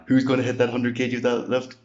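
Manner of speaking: hype question. Acted.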